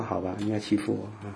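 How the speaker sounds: softly voiced, submissive reply; quiet acceptance. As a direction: give in quietly, without arguing. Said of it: "那些人就是安静".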